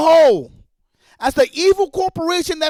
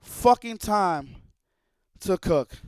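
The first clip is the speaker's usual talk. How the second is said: slow mocking quote; 6 semitones lower, 4 dB quieter, much slower than usual. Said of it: "He said".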